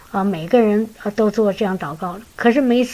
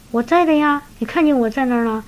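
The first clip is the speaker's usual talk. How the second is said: raised, startled protest; taken aback; 3 semitones higher than usual. Retold or imitated. Sister startled by the pastor's question, raised voice. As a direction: caught off guard, answering quickly. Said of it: "一愣".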